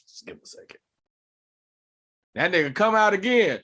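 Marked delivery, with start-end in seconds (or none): 0.1-0.8 tiny voiceless whisper; acted timid whisper; meek aside. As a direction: shrink to a barely audible plea. Mimics flustered newcomer, barely audible.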